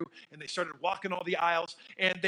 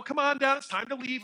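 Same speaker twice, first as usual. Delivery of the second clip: put-on higher, louder calling up to the child; insistent mom call; 8 semitones higher, 5 dB louder than usual. Mother calling her son again, higher and louder. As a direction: call the kid down a second time. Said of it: "like that".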